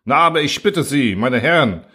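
the major urges his officers on, a touch irritated. Acted. Major presses the officers, mildly irritated. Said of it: "forderte gereizt der Major auf".

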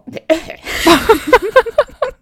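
high breathless laughing fit; hysterical laugh. Real, not acted. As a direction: laugh until you can't breathe. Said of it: "ich kann nicht mehr atmen".

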